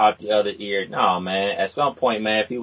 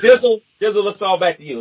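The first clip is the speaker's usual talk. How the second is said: loud, high call to a friend; 7 semitones higher, 6 dB louder, faster than usual. Real, not acted. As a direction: call his name out loud. Passing the mic to co-host.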